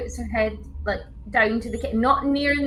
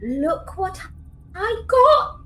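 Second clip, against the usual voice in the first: excited; 6 semitones higher, much slower than usual. Acted. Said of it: "and goes".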